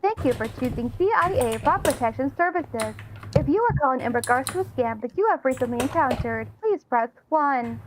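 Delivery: robotic phone menu voice; recorded hotline message voice; automated phone voice. Retold or imitated. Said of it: "this is my automated voice".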